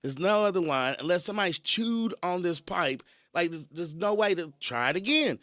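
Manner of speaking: hammed-up exasperation, hot at first then settling; retelling an argument, worked up; exasperated disbelief. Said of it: "I'm like".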